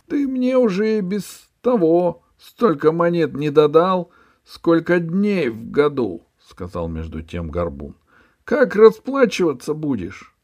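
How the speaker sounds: high, loud scolding; angry boss. Acted. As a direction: berate the debtor. Hunchback scolds ferryman.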